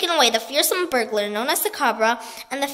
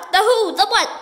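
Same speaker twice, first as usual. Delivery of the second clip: higher, louder puzzled cries; baffled cry; 7 semitones higher, 7 dB louder than usual. A narrator's reading. Everyone asking who the cobra is, baffled. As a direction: blurt out confused. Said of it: "everyone asked".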